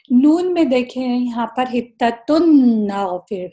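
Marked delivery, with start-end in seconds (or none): 1.7-3.5 حتتن نغفر slowly, noon merged into the next letter; slow recitation showing the merge; tajweed demo. Shown as a demonstration. Teacher demonstrating idgham to students, slow recitation. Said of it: "اب نون کی طرف آتے ہیں".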